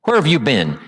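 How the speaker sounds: mildly accusing demand; understated sarcastic challenge; loaded question. Shown as a demonstration. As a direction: ask it pointedly, as if you don't care for the answer. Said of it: "See, that's loaded".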